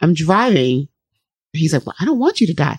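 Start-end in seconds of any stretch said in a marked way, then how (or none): 1.8-2.8 mock crying, high, tearful little boy voice, pleading. Retelling a child's words in the car, imitating a crying child. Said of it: "he starts to freak out and he starts to cry".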